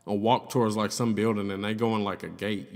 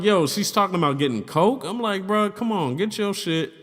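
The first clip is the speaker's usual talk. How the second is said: laughing disbelief; 7 semitones higher than usual. Retold or imitated. Retelling refusing the coke offer.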